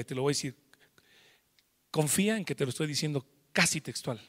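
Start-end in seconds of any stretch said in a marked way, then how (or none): 0.0-0.6 whisper. Real, not acted. Aside to listener.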